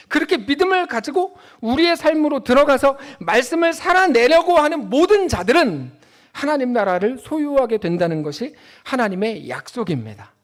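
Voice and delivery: ordinary talk, nothing marked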